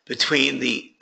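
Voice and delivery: hoarse, fading voice; raspy whisper. Real, not acted. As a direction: strain through a losing voice. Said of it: "I'm losing my voice here".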